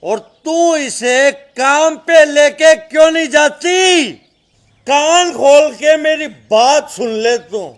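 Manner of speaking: stern tirade with hard-hit words; angry scolding. Acted. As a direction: berate them like a menacing father. Father scolds and threatens mother and daughter. (गुस्से भरी डांट)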